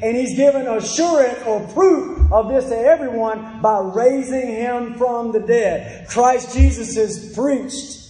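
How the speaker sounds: drawn-out, emphatic pulpit delivery; emphatic preaching. Acted. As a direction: proclaim it firmly to the congregation. Preaches with raised force.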